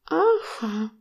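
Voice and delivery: coy aha. Acted. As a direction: toss it off like a pleased woman. Coy reply in dialogue.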